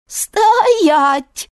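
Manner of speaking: loud, high stop command; barked order. A narrator's reading. Stranger behind Grishka orders him, loud command. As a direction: freeze him with one word. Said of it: "сказал кто-то".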